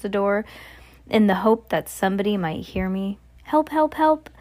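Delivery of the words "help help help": high, repeated cries for help; acted scream. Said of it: "I screamed".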